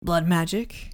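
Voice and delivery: lightly voiced scratchy deep male voice; Meyer Wolfsheim. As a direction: put on a slightly deep, scratchy man's voice. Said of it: "two dueling deep voices".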